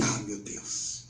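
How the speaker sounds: hushed, slow, nearly voiceless exclamation; retold soft gasp of awe; moved. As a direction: murmur it softly, overcome. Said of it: "Aí fiquei emocionado".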